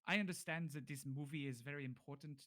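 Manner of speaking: measured, formal bargainer, loud at first; bargaining captive. Acted. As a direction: press the deal firmly and formally. Game master voices bargaining character.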